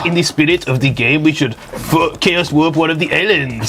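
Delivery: mock French accent in English. Proposing which card to warp, put-on French accent. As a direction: argue your case as a comic Frenchman.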